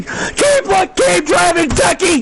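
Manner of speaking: urgent rooting call; cheering on. Real, not acted. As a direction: plead with the driver to keep going. Commentator cheering on his driver.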